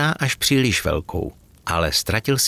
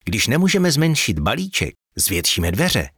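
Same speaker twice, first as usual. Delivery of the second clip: eager idea; 4 semitones higher than usual. Acted. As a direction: pitch the plan, full of excitement. Elf excitedly explains his idea.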